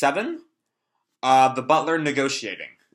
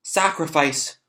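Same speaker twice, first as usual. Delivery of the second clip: gasping shock; 3 semitones higher, slower than usual. Acted. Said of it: "he gasps back".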